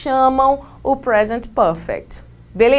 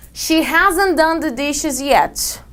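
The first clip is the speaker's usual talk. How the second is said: slow model sentence; 3 semitones higher, much slower than usual. Shown as a demonstration. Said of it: "English example read slowly".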